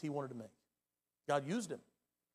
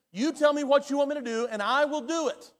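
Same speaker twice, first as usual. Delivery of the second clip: fervent prayer; 6 semitones higher, 7 dB louder than usual. Acted. Acted prayer offering oneself to God.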